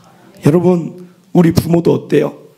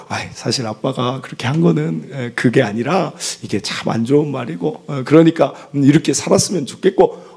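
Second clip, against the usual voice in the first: soft, gentle coaxing; soothing dad; 4 semitones lower, 3 dB quieter than usual. Retold or imitated. Father soothing his crying daughter in a gentle voice. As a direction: comfort a crying child softly. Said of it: "달래기 시작하죠".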